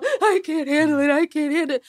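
mild mock scream of despair; anguished cry. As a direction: cry out that it's too much, near breaking. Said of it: "As I'm screaming".

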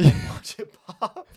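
slow, high, loud goofy voice; goofy friend voice. Retold or imitated. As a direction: drag out a silly boast. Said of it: "his stomach and go".

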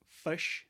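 "fish" with the vowel of "push" or "fuss", spelt F U S H; New Zealand "fush". Shown as a demonstration. Podcaster spelling out the New Zealand vowel, "fish" said "fush". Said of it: "F U S H".

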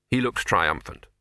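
ordinary delivery, nothing marked

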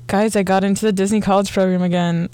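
words muffled behind a hand. Real, not acted. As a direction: hand over mouth. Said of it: "you're muffled again".

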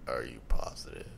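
very low, soft questioning; mock deep voice. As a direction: interrogate in a put-on deep voice. Mimics the deep voice test.

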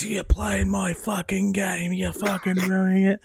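high, drawn-out angry whine, imitated; mock an angry friend, stretched out and high-pitched; put-on high voice of an outraged friend; retold angry outburst.

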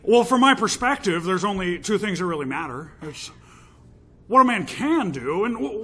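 lightly voiced pirate impression; Nicolas Cage's Jack Sparrow. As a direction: ham up a pirate speech. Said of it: "this character is called, Nicolas Cage's Jack Sparrow".

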